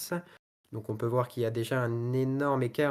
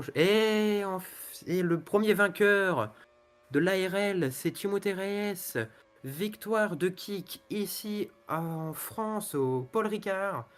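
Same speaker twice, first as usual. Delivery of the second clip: excited race call; 5 semitones higher than usual. Real, not acted. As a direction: call the win with a lift. Calling the race winner.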